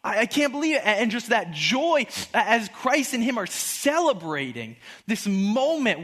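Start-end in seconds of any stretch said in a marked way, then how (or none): 0.0-0.8 high, excited disbelief; ecstatic. Acted. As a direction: act out stammering amazement. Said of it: "he's excited and he's ecstatic".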